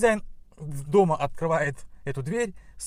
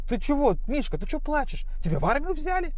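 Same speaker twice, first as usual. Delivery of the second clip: hare voice; 10 semitones higher than usual. Acted. Hare asks crying bear, high voice.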